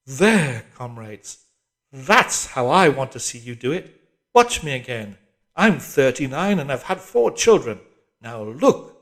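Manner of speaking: loud, bossy orders from the screen; harsh telescreen drill voice, shouting; barking drill instructress. A narrator's reading. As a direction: command the squad like a hectoring PE instructress. Instructress demonstrating to squad.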